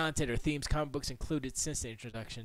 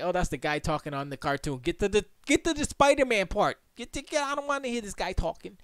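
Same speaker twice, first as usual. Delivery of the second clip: higher, impatient kid wanting the cartoon; 7 semitones higher, 4 dB louder than usual. Bored kid watching cartoon urges it on, mildly higher. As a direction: whine to skip the intro, a little higher. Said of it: "I was just like".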